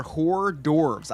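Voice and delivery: hors d'oeuvres said "whore dorves"; punning mispronunciation. Shown as a demonstration. Friend joking about a strip club, hors d'oeuvres as whore-dorves. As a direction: say "hors d'oeuvres" with h sounded, ending "dorvz". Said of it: "strip club called Hors d'oeuvres".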